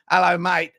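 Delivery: a light Australian hello mate; quick Australian greeting; friendly Australian accent sketch; mild Australian accent. Retold or imitated. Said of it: "Antipodean, Australian".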